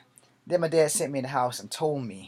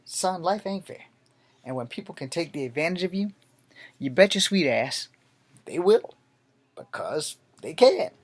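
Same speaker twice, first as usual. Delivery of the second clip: a hint of a lecturing father, louder at the end; stern dad; 4 semitones higher, 6 dB louder than usual. The father lectures his son, building louder. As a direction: let the old school dad drive the lesson home.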